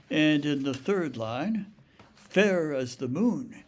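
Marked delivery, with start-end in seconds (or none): 2.2-3.6 "Fair" hit strong, "as the" light; stress on FAIR. Shown as a demonstration. Lecturer shows the reversed stress, FAIR hit hard. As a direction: start "Fair as the moon" on a strong beat. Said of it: "begins the line with a strong stress".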